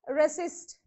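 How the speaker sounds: resist said slowly, stressed on the second syllable; reSIST, drawn out, no stress on the R of resist. Shown as a demonstration. Teacher repeating resist for students, slow second-syllable stress. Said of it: "you have to use a stress".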